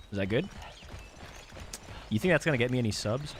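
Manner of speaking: normal talking voice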